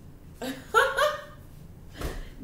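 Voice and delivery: high breathy laugh at a surprise card; sudden high giggle; burst of laughter. Real, not acted. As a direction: laugh out in disbelief. Card surprise makes her laugh.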